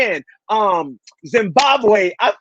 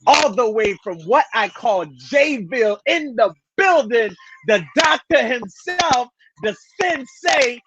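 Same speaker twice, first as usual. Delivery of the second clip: hype announcer. Acted. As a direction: announce the guest like a boxing-ring MC. Hype introduction of guest.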